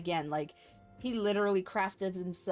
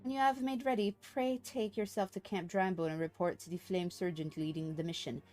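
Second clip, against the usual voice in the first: formal briefing read aloud; 3 dB quieter than usual. Acted. Streamer reads a mission briefing to the player, formal storytelling. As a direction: deliver a formal quest briefing, subdued.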